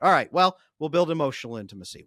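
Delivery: emphatic advice. Retold or imitated. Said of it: "Adam answers the guy".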